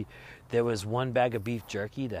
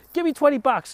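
much higher, loud demanding Elaine; imitating Elaine; 11 dB louder than usual. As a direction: play Elaine snatching the money. Elaine voiced in retold episode.

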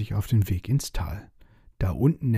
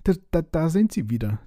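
much higher, stuttering in fright; panicked stammer; 7 semitones higher than usual. Acted. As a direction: sputter it out in terror. Dragon panics at parade.

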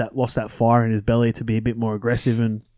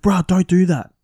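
imitating Thurston; 7 semitones higher, 3 dB louder than usual. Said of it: "He's like".

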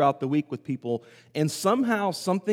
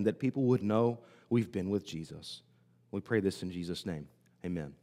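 prayer; 3 semitones lower than usual. Acted. Pastor praying before the sermon, earnest prayer. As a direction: pray over the congregation.

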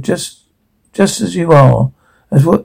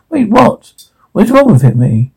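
alarmed confusion; 6 semitones higher than usual. Acted.

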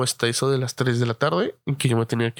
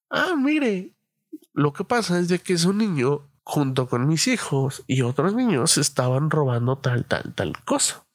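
complaining mom. Retold or imitated. Imitating friend's mother complaining.

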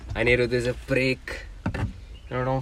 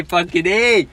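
mock yell; 6 semitones higher, 7 dB louder, slower than usual. Mocking friend's sudden yell.

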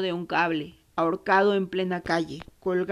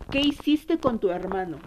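repeated demand. Retold or imitated. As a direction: press the question a second time, easing off. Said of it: "la agarré y la sacudí y le dije".

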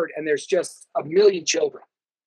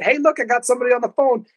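higher, quicker quoted voice; put-on voice of an acquaintance, pitched up; imitated woman calling over; 5 semitones higher, faster than usual. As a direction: act out someone eagerly flagging you down. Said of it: "Hannah Sim came up and she said".

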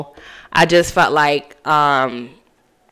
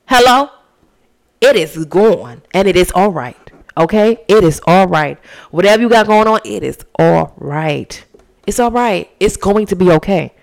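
preaching reassurance. Real, not acted. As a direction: speak it over them like a promise. Speaking a blessing over listeners.

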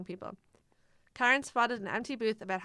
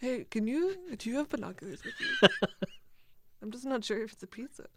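laughing; 4 semitones higher than usual. Pretend. Mock boy voice, laughing.

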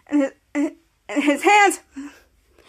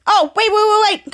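higher, repeated "wait"; acted urgent plea; 5 semitones higher than usual. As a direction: stop someone leaving, in mock urgency. Stopping someone walking away.

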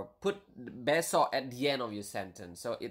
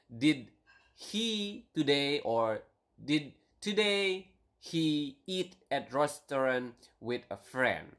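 slow word-by-word gloss; slower than usual. Shown as a demonstration. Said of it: "It would mean".

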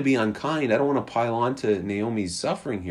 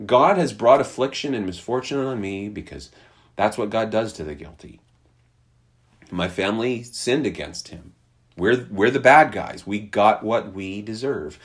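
resigned acceptance; 4 semitones lower than usual. Retold or imitated. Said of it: "It sounds to me more like".

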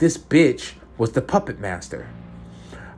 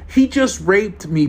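bitter; 9 semitones higher, 5 dB louder, slower than usual. Acted. Terry's bitter slow line.

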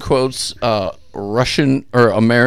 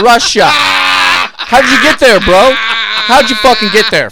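higher, drawn-out bro voice; slow, higher mock "how'd you get there, bro"; mock bro disbelief; 11 semitones higher, 7 dB louder, slower than usual. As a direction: ask it like a baffled bro. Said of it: "mocking confused question".

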